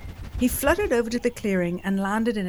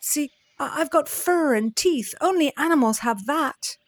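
pleading bat; 6 semitones higher, 4 dB louder than usual. Acted.

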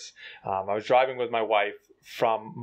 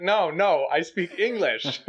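insistent protest; 6 semitones higher, slower than usual. Retold or imitated. Retold insistent reply on phone.

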